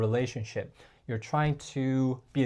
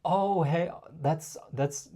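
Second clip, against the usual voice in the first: pleading. Shown as a demonstration. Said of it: "You can't be like".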